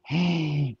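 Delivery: soft sharp gasp of shock. Pretend. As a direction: gasp in mock surprise. Rival is his brother.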